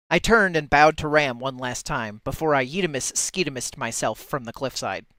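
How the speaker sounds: loud start, easing toward the end; mock-dramatic narration. Reader giving a Twitch and YouTube appropriate ending, mock-dramatic narration. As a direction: narrate a silly ending as if it were epic. Improvises a censored story ending.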